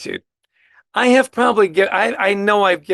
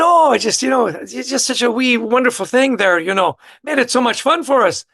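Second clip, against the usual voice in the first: lightly imitated lilting Irish accent, higher; a touch of Irish accent, pitched up; 4 semitones higher than usual. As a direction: play at a hint of an Irish accent. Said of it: "she had that lovely Irish accent".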